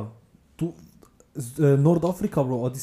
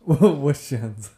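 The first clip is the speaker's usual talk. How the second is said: slow, louder through laughter; laughing slow mock; 2 semitones higher, 6 dB louder, much slower than usual. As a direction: stretch it out laughing. (lachend langsam nachgeäfft)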